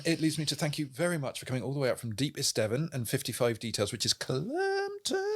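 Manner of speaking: a hint of South African accent. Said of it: "And a South African accent, apparently".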